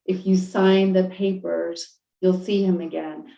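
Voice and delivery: slow, even repeat of the promise; calm divine voice. Retold or imitated. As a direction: say it again, patient and unhurried. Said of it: "the voice just kept saying it".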